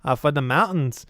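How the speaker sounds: proud dwarf with swooping, drawn-out vowels; halting, heavily accented dwarf. Acted. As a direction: declare it as a mountain dwarf. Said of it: "we don't get to do dwarf voice".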